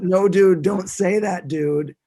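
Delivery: put-on Boston accent. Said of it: "terrible Boston accent".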